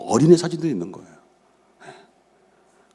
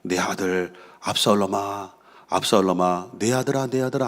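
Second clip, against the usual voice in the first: mournful lament; 3 semitones lower, 6 dB quieter than usual. Acted. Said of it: "큰 소리로 부르되".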